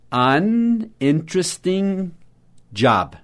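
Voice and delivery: An interesting drawn out very slowly; slow model phrase. Shown as a demonstration. Teacher slowly modelling the phrase for students. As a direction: stretch An interesting out for learners. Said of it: "Então, vamos lá".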